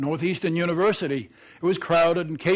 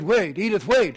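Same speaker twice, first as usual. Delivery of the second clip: calling out; 2 semitones higher, 5 dB louder than usual. Acted. Calling Edith back at the stop.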